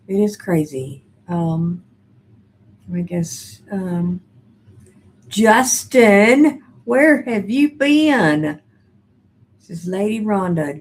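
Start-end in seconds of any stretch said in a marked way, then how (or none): 5.3-8.6 loud, high, drawn-out welcome; excited greeting. Real, not acted. Host hails viewer Justin back to chat, excited greeting. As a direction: call out to a long-missing friend.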